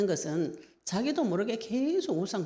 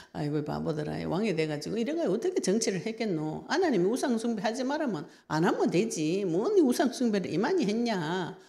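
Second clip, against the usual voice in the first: proud scolding of foolish kings; 3 semitones higher than usual. Retold or imitated. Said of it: "이렇게 교만하지".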